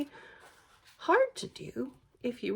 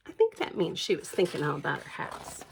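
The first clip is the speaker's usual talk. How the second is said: hushed whispered aside; 9 semitones lower, 5 dB quieter than usual. Real, not acted. Parent whispering to child about the dreaming bear. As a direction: lean in and whisper it. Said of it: "whispered aside to child".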